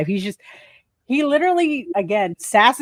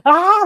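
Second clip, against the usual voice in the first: mock scream; 11 semitones higher, 5 dB louder than usual. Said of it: "like, just screaming".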